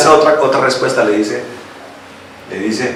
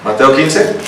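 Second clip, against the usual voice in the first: ordinary talk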